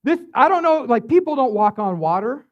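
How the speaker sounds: alarmed disciples. Retold or imitated. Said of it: "So they're like".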